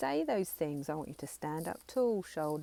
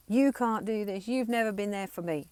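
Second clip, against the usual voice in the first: put-on angry child; 3 semitones higher, 5 dB louder than usual. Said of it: "just let them go".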